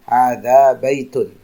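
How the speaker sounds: hadza baitun said slowly and clearly; careful demo reading; slow model answer. Shown as a demonstration. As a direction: spell out hadza baitun for learners. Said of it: "kita jawabnya na'am".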